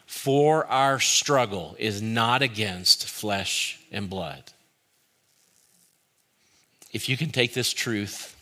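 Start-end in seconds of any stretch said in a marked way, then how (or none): 0.0-4.5 slow, deliberate verse recitation dropping at the end; group recitation. Real, not acted. Preacher repeating verse with congregation, slow recitation. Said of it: "Say it one more time".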